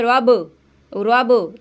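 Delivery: रब with the b bouncing back; wrong reading. Shown as a demonstration. Teacher imitating the bouncing ba. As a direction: let the b in रब spring back. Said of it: "तो इस तरह से नहीं करना".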